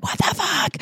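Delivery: high, held-back mock scream; retold furious screech, pulled back; angry outburst. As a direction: squeal it in outrage at reduced volume. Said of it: "I was so angry".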